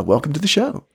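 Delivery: monster voice. Acted. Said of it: "It's, it's Jimmy Durante".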